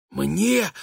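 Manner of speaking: high, startled gasp of a word; horrified. A narrator's reading. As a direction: recoil in alarm. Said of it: "ужаснулась Полет".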